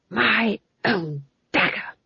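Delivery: slow, wondering ghost of a king. A narrator's reading. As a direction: draw it out as a dead king's realisation. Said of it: "said the ghost of the king".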